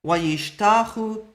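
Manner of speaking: wayishtachu said slowly, the waw ending as a u vowel; slow example word. Shown as a demonstration. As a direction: draw out wayishtachu and end on the u. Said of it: "he bows down".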